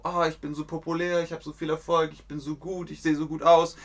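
lightly voiced smug diva, a bit fast. A diva bragging about her success, lightly mock-smug. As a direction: preen a little like a vain diva. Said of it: "wie eine Diva".

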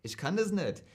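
Hessian accent with "nischt"-like endings; Hessian attempt. Shown as a demonstration. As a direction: try a Hessian accent, a bit forced. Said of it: "und das Hessische". (bemühter hessischer Akzent)

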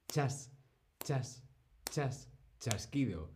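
soft click. Shown as a demonstration. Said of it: "O chasquido".

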